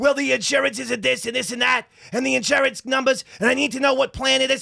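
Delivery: put-on Brooklyn-style New York accent. Retelling the mother's reply on the phone: imitating mom as a New Yorker. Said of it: "this is how my mom talks".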